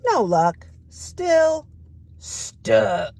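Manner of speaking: high then breathy sigh of stuck; stuck duck refrain. Acted.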